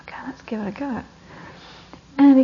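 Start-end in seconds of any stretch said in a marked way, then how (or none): 0.0-1.0 soft, quick whisper; conspiratorial whisper. Acted. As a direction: hush it like a secret. Son's secret plan.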